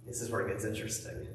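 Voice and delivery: whispered, fast, like a secret; teasing whisper. Acted. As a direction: lean in and whisper the hook. Teaser line, then repeated aloud.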